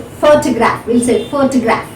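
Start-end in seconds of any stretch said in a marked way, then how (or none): 0.0-0.8 photograph with the force on PHO; first-syllable stress. Shown as a demonstration. Teacher showing word stress, photograph stressed on PHO. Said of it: "So the first syllable is stressed". 1.3-1.9 photograph as PHO-to-graph, first beat strongest; first-syllable stress. Shown as a demonstration. Teacher repeating the model, photograph stressed on PHO. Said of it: "So the first syllable is stressed".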